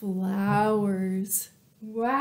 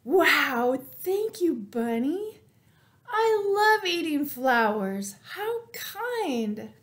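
high cow voice; 4 semitones higher than usual. Acted. Cow thanks Bunny.

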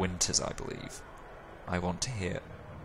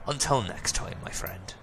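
whisper. Acted. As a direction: breathe the farewell. Parting whisper, unvoiced.

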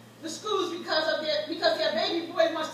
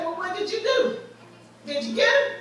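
grandmother's demand; 4 semitones higher than usual. Retold or imitated. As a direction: press the child like a fired-up grandmother. Grandmother quoted demanding results.

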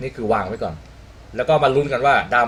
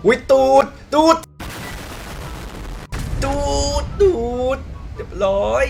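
mock-excited, pitched way up; playful high cries; 12 semitones higher than usual. Playful cries as enemy's rear shows.

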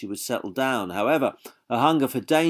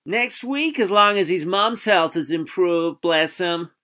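much higher fussing lady voice; high genteel lady; 9 semitones higher, 4 dB louder than usual. A narrator's reading. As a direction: fuss like a fond older lady. Sally character voice.

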